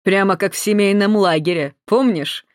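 leering. Acted. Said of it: "охранник сально усмехнулся".

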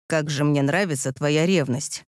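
low, hushed and aroused; aroused whisper. A narrator's reading. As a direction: murmur it low, close to her. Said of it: "возбуждённо прошептал он".

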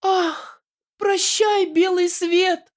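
very high wailing farewell; very high hammed-up dying heroine; melodramatic farewell. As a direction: wail goodbye to the world, high.

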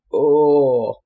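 low, loud gasp of shock; startled vampire yelp. A narrator's reading. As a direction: yelp as you drop. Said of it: "выразился Айрон". (испуганный возглас)

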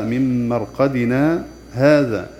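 مرقدنا held, then a short breathless stop before هذا, very slow; recited with a brief pause. Shown as a demonstration. Teacher demonstrates the silent pause, very slow recitation. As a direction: pause lightly after مرقدنا without taking breath. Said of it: "نسكت سكتة لطيفة بغير تنفس".

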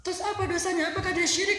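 loud, high demanding questions; desperate demand. Retold or imitated. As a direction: demand an answer, voice climbing. Husband demands to know the sin.

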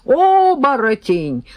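put-on old man's howl. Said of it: "завопил старикашка".

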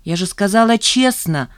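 cross, pushing for honesty; a sharp, irritated retort; angry. Acted. Zhanna scolding Remizov for dodging, annoyed. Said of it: "рассердилась Жанна".

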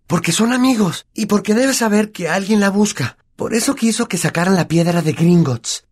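high, brisk know-it-all; eager Hermione. Acted. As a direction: explain it excitedly. (Hermione entusiasta)

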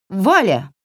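a touch of a breaking voice. A narrator's reading. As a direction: let the name catch in your throat. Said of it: "Голос у Вари сорвался".

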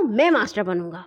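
put-on firm bigger-boy claim; mildly bossy declaration; firm insistence. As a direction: state it as the boss, settling it. Bully claims the role for himself.

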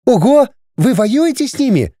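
high amazed call over wind; wow, shouted into the wind; surprised shout. A narrator's reading.

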